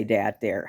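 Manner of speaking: DAT said with a d in place of th; hard d opening on dat; Yooper d for th. Retold or imitated. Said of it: "they do say dat".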